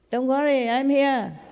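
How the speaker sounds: high-pitched, tender reassurance; reassuring. Real, not acted. Master comforting a worried disciple, reassuring.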